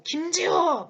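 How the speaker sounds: put-on loud, high yell of a child's name; a mother shouting for her son; mom yelling a name. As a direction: call the kid sharply across the house. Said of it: "막 이렇게 소리를 지르신다든지".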